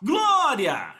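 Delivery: shouted glória. Retold or imitated.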